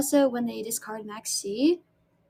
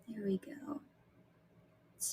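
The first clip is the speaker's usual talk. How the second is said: whispering; 4 semitones lower, 19 dB quieter than usual. Real, not acted. Quiet aside while painting nails.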